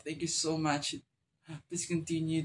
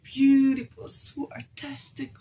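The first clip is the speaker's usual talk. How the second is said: tearful awe; 7 semitones higher, 5 dB louder than usual. Real, not acted. Reactor praising the singer's runs, tearful awe. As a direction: gush high, breaking into a whisper. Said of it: "That's why I'm always cry".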